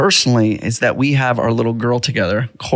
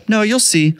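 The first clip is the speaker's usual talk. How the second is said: put-on higher, sing-song kid voice; little daughter voice; 9 semitones higher than usual. Dad voicing his daughter hiding her plan, a higher kid voice. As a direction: play the secretive five-year-old.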